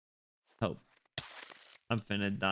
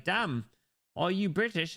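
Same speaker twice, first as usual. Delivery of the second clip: higher, mock-amazed question; impressed; 6 semitones higher, 3 dB louder than usual. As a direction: pitch it up as an impressed listener. Acts a gullible listener.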